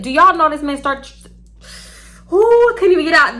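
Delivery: outraged. Real, not acted. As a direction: wound up at the absurdity.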